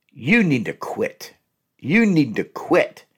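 slow, stern order to quit; slow curt command. Shown as a demonstration. Demonstrating a harsh command to a partner, slow and stern. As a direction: drag it out like an order. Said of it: "don't say it that way".

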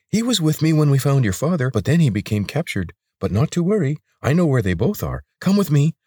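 high, urgent creature voice that leaps up; an anxious lizard urging his friend to hurry. Acted. Sarek explains and urges.

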